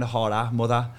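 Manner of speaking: harder and mother ending in an open A, Geordie. Shown as a demonstration. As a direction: end mother on an "a" sound. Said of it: "I put an A at the end".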